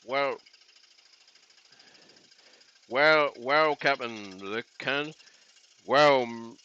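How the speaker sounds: a quiet, fumbling Scottish Connery impression; Sean Connery as Scotty. The streamer imagining Connery playing Scotty in a quiet mock Scottish accent. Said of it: "Imagine they'd got Sean Connery for Scotty".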